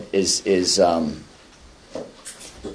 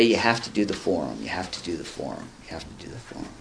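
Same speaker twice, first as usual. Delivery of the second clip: fading repeated insistence; 3 semitones lower, 11 dB quieter, faster than usual. Retold or imitated. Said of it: "And she would say".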